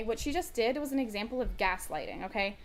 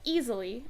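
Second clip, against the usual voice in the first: "easily" punched out as if typed in capitals; stress on easily; 2 semitones higher, 5 dB louder than usual. Retold or imitated. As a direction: lean firmly on "easily". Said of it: "I said that in all caps".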